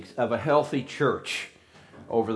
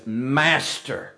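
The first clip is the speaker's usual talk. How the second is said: sarcastic. Shown as a demonstration. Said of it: "you can read the sarcasm into this".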